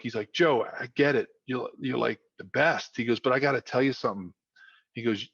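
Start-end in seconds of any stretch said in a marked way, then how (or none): 0.3-3.0 lightly voiced South Philly father; South Philly dad. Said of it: "The South Philly in me starting to come out". 3.2-4.3 quick, lightly voiced South Philly father; South Philly dad. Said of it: "The South Philly in me starting to come out".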